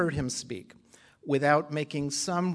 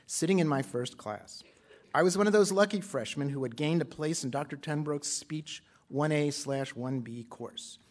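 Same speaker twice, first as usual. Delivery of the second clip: formal speech reading; 2 semitones higher than usual. Acted. Colleague reading an absent friend's speech to a conference, formal read-aloud.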